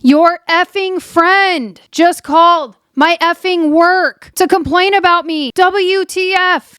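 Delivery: high-pitched, outraged imitation; hammed-up retold anger, letters hit slowly; mock mad. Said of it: "he's really mad".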